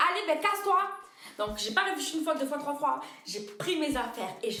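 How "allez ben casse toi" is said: mock snooty dismissal. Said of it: "elle me dit".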